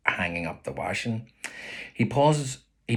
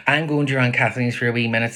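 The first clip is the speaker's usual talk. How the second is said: brisk announcement; 4 semitones higher, 5 dB louder, faster than usual. Acted. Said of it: "says Ma".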